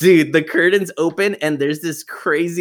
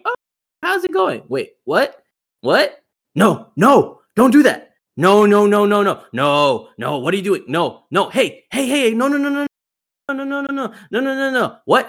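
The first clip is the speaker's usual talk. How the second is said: high, rising panic, repeated no's climbing higher; panicked phone call; 6 semitones higher than usual. Retold or imitated. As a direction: babysitter freaking out at a friend on the phone. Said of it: "it was kinda one of those".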